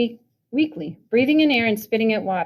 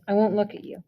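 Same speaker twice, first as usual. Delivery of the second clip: steady voice; 4 dB quieter than usual. Acted. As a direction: say it flat and steady. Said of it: "in the same steady voice".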